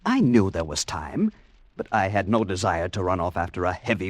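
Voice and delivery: calm retelling in the first person; story narration. A narrator's reading. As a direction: tell it like a radio story, steadily.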